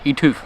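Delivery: YOUTUBE as "yoo-TOOF"; imitated mispronunciation. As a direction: mimic YouTube with an f at the end. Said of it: "listen to Annie say YouTube".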